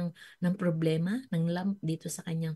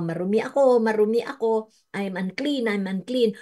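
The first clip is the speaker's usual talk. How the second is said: retold leper calling out; 4 semitones higher, 4 dB louder than usual. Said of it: "sumisigaw ka".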